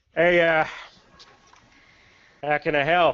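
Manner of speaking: put-on orc character voice. Telling a story, the speaker voices an orc who comes out to greet someone: orc voice. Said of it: "There's an orc that comes out chewing on a cigarette".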